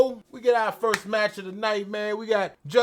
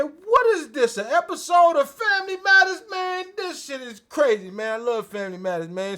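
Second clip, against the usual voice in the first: incredulous high quote; 7 semitones higher, 6 dB louder than usual. Retold or imitated.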